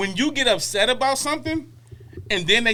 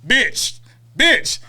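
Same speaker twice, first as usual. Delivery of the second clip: contemptuous; 3 semitones higher, 4 dB louder than usual. Retold or imitated. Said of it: "that's how I hear when they be saying".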